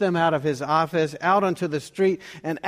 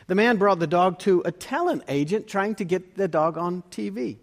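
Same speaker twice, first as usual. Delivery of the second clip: ordinary talk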